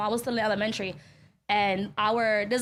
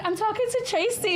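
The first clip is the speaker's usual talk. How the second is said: put-on little kid voice; 7 semitones higher than usual. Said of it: "She was like".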